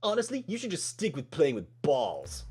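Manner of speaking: lightly voiced jock; a hint of a mocking jock. Shown as a demonstration. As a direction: try out a mild jock put-down. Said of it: "need a more jock voice".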